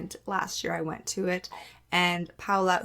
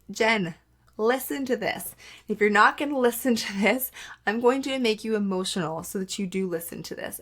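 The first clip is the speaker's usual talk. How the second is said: voice of her body. Retold or imitated. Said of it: "my body was like".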